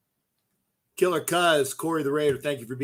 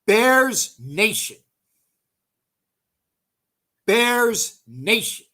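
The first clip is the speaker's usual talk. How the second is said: mocking taunt; 6 semitones higher, 4 dB louder, much slower than usual. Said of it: "he said".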